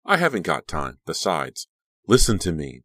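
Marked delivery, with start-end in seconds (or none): 2.1-2.8 snapping. Acted. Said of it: "Dee snapped".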